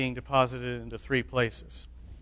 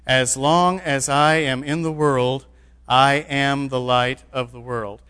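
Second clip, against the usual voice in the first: slow, louder unison scripture reading; reading aloud together; 4 dB louder, slower than usual. Shown as a demonstration. Preacher leading the church in reading scripture aloud, slow and deliberate. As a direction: lead the congregation through the verse slowly. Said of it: "let's read this one aloud together".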